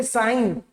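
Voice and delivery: साइन with no g sound; silent g. Shown as a demonstration. Teacher giving the example word, silent g. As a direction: say साइन straight from the vowel to n. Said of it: "जी गायब".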